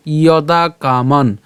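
slow "ইয়দা কামান", with the last ন of কামান only half sounded; half-sounded final consonant. Shown as a demonstration. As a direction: stop "কামান" on a bare ন, no vowel after it. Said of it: "এখানে কামান কেন উচ্চারণ করছি". ("কামান" শেষের ন অর্ধেক উচ্চারণে, ধীরে)

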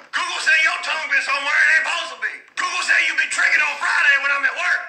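put-on jealous boyfriend yelling over a tongue bump; heated accusing yell. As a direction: rant at her like she cheated. Heated argument with girlfriend.

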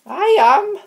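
high, loud eager cry; excited squeal. Pretend. Pretend housemate yelling back to the host, excited squeal. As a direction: squeal it like a thrilled contestant.

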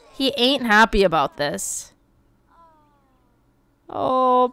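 normal talking voice

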